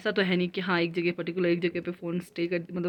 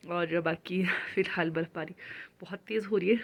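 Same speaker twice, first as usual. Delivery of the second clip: ordinary delivery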